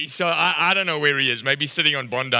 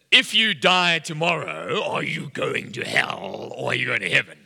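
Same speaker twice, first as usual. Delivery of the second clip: mock hellfire evangelist. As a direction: put on a heavy evangelist's challenge. Mock heavy evangelistic challenge.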